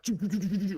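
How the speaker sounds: rapid-fire stuttering sound effect; imitated zooming noise. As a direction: mimic a stream of cars whizzing past. Imitating cars zooming past.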